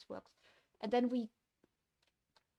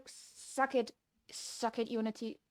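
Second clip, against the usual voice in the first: gloating taunt. Real, not acted. Gloating at the engine.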